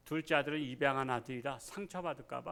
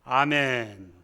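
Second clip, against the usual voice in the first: amen; 3 semitones lower, 9 dB louder, much slower than usual. Real, not acted. Preacher closes reading.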